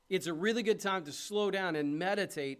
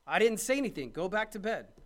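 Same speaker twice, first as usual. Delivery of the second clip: exasperated Eli; 4 semitones higher, 6 dB louder than usual. Acted. Preacher voicing Eli, annoyed.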